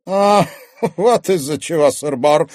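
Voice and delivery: mocking chuckle, high and loud; smirking laugh. A narrator's reading. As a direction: laugh it off with scorn. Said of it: "усмехнулся Корф".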